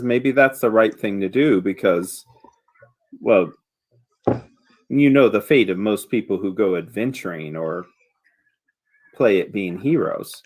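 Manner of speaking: low, lightly voiced note of caution; understated warning, with hesitant pauses; villager wife's warning. Wife warns about adventurers' fate.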